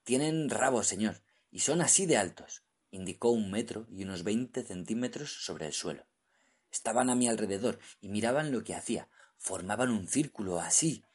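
frightened. Acted. Frightened diver describing devils.

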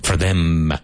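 "them" ending on a closed M. Shown as a demonstration. Teacher pointing out the M sound ending "them". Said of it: "With an M".

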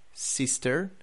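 "sister" the American way, final R sounded, rising; American demo of "sister", tune left open; American accent. Shown as a demonstration. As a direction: model American "sister" with an r-coloured ending. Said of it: "The same with brother in".

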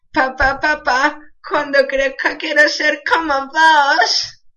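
a slow, lightly put-on Argentine kid; a hint of a porteño child asking his father; Argentine accent. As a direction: voice the son in a mock Argentine accent. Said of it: "qué bien imito el acento".

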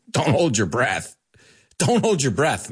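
dry, sarcastic don't hold your breath. Shown as a demonstration. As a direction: say it as if the idea is silly. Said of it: "I'll say to you very sarcastically".

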